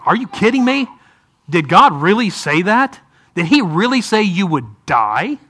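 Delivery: mildly incredulous, insinuating questions; sarcastic. Acted. Preacher plays Satan undermining God to Eve, sarcastic insinuation. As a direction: cast doubt with a sarcastic edge. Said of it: "do you hear sarcasm in Satan's voice".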